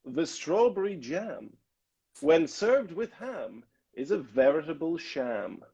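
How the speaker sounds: slow, over-enunciated vocal drill; deliberate, sing-song demonstration; tongue-twister recitation. Shown as a demonstration. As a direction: recite it phrase by phrase, stretching each rhyme. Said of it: "a tongue twister".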